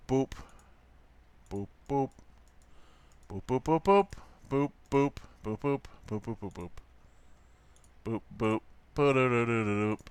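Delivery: short soft boops in rhythmic bursts; idle sound effects, ending in a rolled flourish; little boop noises. Pretend. Voicing noises while drawing.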